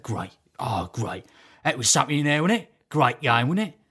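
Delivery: lightly imitated chummy football man; a hint of a matey impression; Terry Venables. Man chatting about the game with a supposed acquaintance, lightly imitated. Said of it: "I'm walking with Terry Venables".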